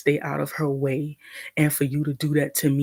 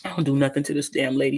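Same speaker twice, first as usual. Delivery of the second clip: talking while chewing; words round a bite of food; mouth full; faster than usual. Real, not acted. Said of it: "Sorry, I'm eating".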